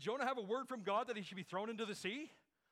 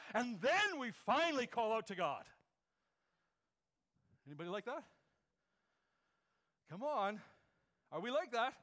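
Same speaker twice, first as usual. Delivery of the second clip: louder and higher, building the appeal; rising fervor; 6 semitones higher, 6 dB louder than usual. Real, not acted. Preacher rousing the congregation, voice climbing louder and higher. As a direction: drive it home, climbing with each line.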